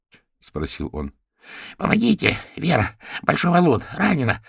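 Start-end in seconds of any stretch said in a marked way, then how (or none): 1.4-4.4 high, breathless gasps for help; breathless plea. A narrator's reading. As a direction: blurt it out of breath. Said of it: "только и смогла выдохнуть Ленор".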